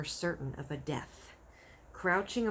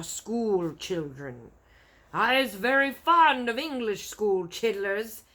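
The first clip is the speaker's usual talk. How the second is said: taunting giant; 6 dB louder than usual. Acted.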